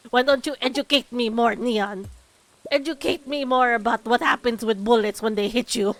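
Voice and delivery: loud, sarcastic mock outrage; loudly sarcastic reply to a game character; sarcastic arguing. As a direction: argue back at her, loud and sarcastic. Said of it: "I'm like".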